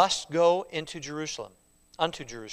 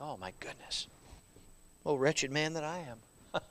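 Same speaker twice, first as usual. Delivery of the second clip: remorseful lament; 4 semitones lower, 11 dB quieter than usual. Retold or imitated. Preacher voicing remorseful believer.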